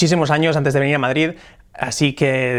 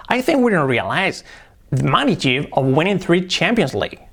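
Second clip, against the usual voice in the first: slow, melodic "I think we don't realize"; with intonation. Shown as a demonstration. Teacher models the sentence with better intonation. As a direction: give the sentence a natural English tune. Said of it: "darle una entonación".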